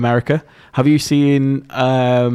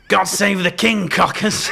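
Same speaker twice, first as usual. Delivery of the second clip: Hacker T-Dog voice; 8 semitones higher, slower than usual. Retold or imitated.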